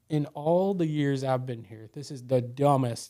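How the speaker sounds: slow, measured mock scolding; retold scolding. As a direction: imitate a telling-off, drawn out word by word. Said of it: "she's just scolding me".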